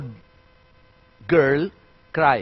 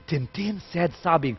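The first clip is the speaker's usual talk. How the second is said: whispering tone; 7 dB quieter than usual. Shown as a demonstration. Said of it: "But in a whispering tone".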